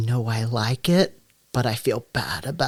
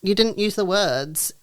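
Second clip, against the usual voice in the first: retold retort; 8 semitones higher than usual. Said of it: "I'm like".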